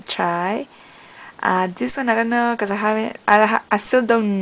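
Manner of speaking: talking while pulling lip; finger in mouth corner. Real, not acted. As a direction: lip held aside by finger. Seen 4: Finger hooks the lip corner beside the braces throughout the words.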